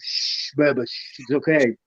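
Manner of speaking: calm the raging knight down gently; soothing shush. Retold or imitated. Knights soothing a furious newcomer, mild hushing comfort. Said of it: "they cuddled me, swallowed me".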